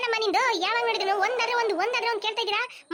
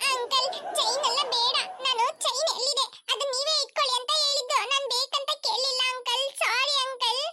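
scared backtracking; 4 semitones higher than usual. Acted. Child apologising to kidnapper about the chain, scared backtracking. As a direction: back down fearfully and apologise. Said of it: "ಆ ಭಯ ಇರ್ಬೇಕು".

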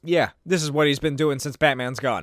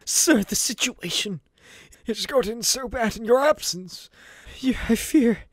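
higher, pleading butler voice; Alfred voice; 6 semitones higher than usual. Acted. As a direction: beg your master gently, voice raised high.

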